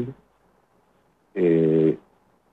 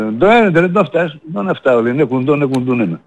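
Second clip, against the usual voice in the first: higher, quick Pontic patter, rattled off; Pontic dialect quote; 5 semitones higher, faster than usual. Retold or imitated. Caller retelling an old Pontic man's reply to the host, in Pontic dialect. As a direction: mimic an old Pontic man answering. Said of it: "Κάνε μετάφραση να καταλάβουν".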